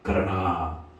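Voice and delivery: low plea swelling to loud, slow surrender; solemn prayer. Acted. Jesus prays in Gethsemane to the Father, solemn plea. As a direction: implore the Father, drawing out the final phrases. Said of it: "겟세마네에서 이 기도를".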